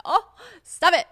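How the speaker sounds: high, loud, drawn-out flattered squeal; hammed-up bashful delight; coy mock protest. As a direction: playfully wave off the compliment. Coy reply to listeners' praise.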